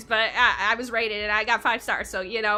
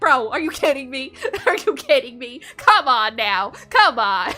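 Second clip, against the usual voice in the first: louder laughing are you kidding me; laughing disbelief; 5 dB louder than usual. Retold or imitated. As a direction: laugh through the complaint. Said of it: "I'm like".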